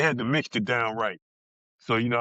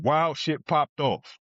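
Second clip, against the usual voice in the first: slow emphasis; much slower than usual. Real, not acted. Emphasizing prison violence.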